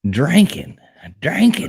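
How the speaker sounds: mimicked twangy "drinking", with an "ank" sound; Southern "drinking". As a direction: say "drinking" as a teasing Southern "drankin". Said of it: "love that we're talking drinking".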